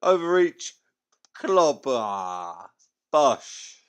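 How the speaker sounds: punchy, loud one-word blow-by-blow; excited knockout calls. Acted. Fan replaying the knockout blows, in loud excited calls. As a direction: call each punch as it lands.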